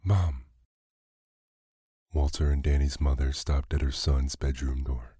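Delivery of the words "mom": yelled. A narrator's reading. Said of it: "Danny Budwing yelled".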